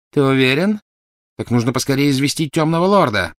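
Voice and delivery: high, loud, urgent woman's voice; fervent woman zealot. Acted. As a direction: demand action in high excitement. Voices Bellatrix in the story. (высокий, взволнованный женский голос)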